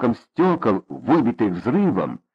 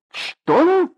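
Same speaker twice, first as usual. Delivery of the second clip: shrill high gasp of "Что?"; shocked. Acted. Mother reacts in shock to her son's plan. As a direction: jolt up in disbelief.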